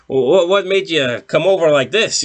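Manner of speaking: imitating a stunned boss, voice jumping up; shocked disbelief. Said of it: "Andrew Chase is like".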